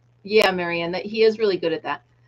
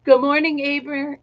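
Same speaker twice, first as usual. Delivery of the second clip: talking through a yawn; 5 semitones higher, 3 dB louder than usual. Real, not acted. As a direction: say it mid-yawn, stretched open. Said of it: "I was yawning".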